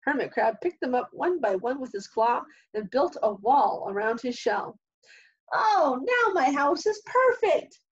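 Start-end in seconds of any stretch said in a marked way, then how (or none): 5.5-7.8 cheering. A narrator's reading. Hermit Crab, delighted with his finished house, cheering. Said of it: "cheered Hermit Crab".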